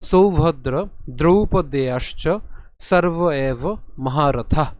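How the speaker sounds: slow, deliberate Sanskrit shloka reading; measured scripture recitation; verse recitation. Shown as a demonstration. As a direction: recite phrase by phrase, drawing out the long vowels. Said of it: "আমরা প্রথমে একটু ভেঙে নেই".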